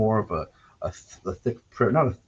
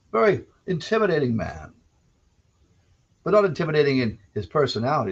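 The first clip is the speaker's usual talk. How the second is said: lightly voiced folksy radio storyteller; a hint of gentle old-time radio storytelling; Stuart McLean style. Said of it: "I'm not gonna go full Stuart McLean".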